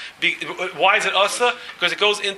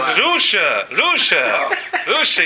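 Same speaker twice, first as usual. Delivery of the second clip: high, raised mock yell of accusation; retold scream; 3 semitones higher, 4 dB louder, much slower than usual. Other guy runs out after the winner, mock screaming. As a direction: hurl it like an angry shout, retold. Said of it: "He screamed at the other guy".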